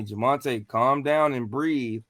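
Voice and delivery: low, soft calming voice; calm guiding voice. Retold or imitated. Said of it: "I heard a voice tell me".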